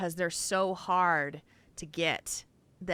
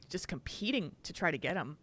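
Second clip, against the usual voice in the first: hiccups; 2 semitones lower, 6 dB quieter than usual. Real, not acted. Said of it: "Excuse me, I'm hiccuping".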